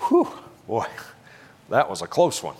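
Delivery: exaggerated phew of relief; mock relief. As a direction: puff out a sigh as if narrowly escaping. Mocking God's relief after near miss.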